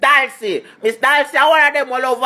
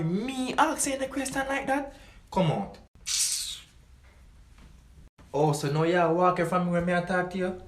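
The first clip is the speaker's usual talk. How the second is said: scolding mother; 8 semitones lower, 12 dB quieter than usual. Acted. Jamaican mother scolding child.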